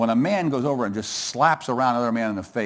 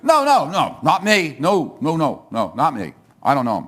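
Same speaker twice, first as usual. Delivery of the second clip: panicked denial. Acted. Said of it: "Hey, you there. You're one of his disciples".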